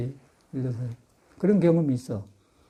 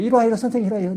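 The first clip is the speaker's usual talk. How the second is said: higher-pitched retold call to come over; acted beckoning; 6 semitones higher, 3 dB louder, much faster than usual. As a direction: act out calling someone over to you. 상대를 부르는 말을 재연. (이리 오라고 부르는 흉내)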